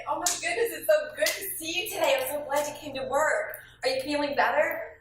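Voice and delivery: cheerful, caring hello; genuine warmth. Shown as a demonstration. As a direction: greet them with real delight. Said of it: "Or you can say".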